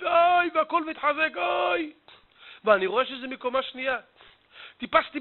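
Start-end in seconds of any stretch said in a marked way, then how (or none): 0.0-0.5 high "oy" wail; mock lament on a held high note; imitated wailing. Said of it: "ואני שומע בכי נורא". 1.4-1.9 high, held "oy"; drawn-out mock wail; imitated wailing. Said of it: "ואני שומע בכי נורא".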